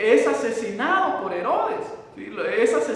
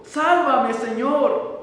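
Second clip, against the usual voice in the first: cry for help; 2 semitones higher, 4 dB louder, much slower than usual. Acted. Pedro sinking in the water cries to Jesus, desperate shout. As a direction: call out as if sinking. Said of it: "Y gritó".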